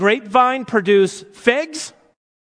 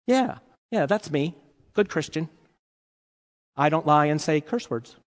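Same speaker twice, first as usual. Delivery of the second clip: smug good Christian; 4 semitones lower, 6 dB quieter than usual. Pretend. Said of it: "Oh, so you're the good Christian?".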